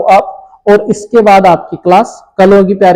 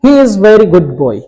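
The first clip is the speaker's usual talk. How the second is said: slow dictation; much slower than usual. Shown as a demonstration. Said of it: "ठीक है".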